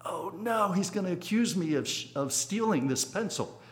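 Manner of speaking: high-pitched mock dismay, easing down at the end; retold alarm. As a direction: act out a child's sudden "uh-oh" worry. Child's alarmed thought, retold.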